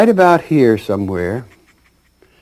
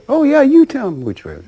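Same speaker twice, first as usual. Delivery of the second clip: eager yes; 4 dB louder than usual. Retold or imitated. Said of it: "He says, he says".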